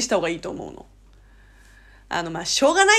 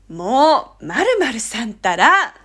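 louder, drawn-out friendly chiding; emphatic nudge; 5 dB louder, much slower than usual. Shown as a demonstration. Friend to close friend, playfully insistent. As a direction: press the point with a stretched, playful emphasis. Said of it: "念押しのニュアンス".

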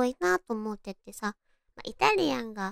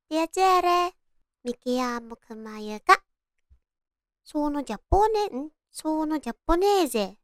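Italian accent; 4 semitones higher than usual. Shown as a demonstration. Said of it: "って言ったの".

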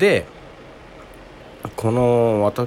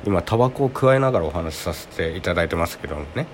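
cigarette in mouth. Real, not acted.

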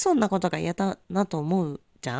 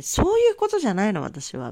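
indignant retort; 3 semitones higher, 3 dB louder than usual. Retold or imitated. Retorting angrily to boyfriend's friend.

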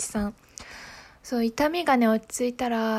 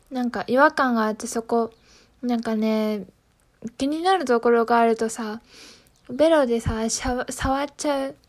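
numb mouth. Real, not acted. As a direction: mouth numb from anesthesia, awkward words. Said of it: "めっちゃ喋りにくい".

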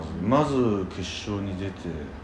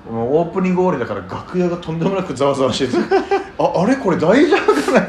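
louder, laughing retelling; 5 semitones higher, 7 dB louder than usual. Real, not acted. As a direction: laugh through the story. Retells noisy backstage, laughing.

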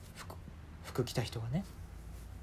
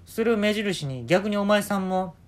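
put-on old man; 6 semitones higher, 6 dB louder, slower than usual.

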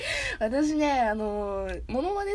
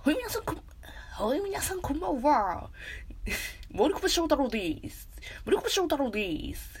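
attempted voice actor greeting with stretched endings; Morikubo; 3 semitones higher than usual. Streamer introducing herself as a voice actor, mock impression. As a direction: draw out the last word, lightly hammed up. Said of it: "森久保さん。".

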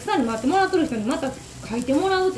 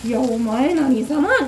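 inner fury; 4 semitones higher than usual. Retold or imitated. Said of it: "って思いながら".

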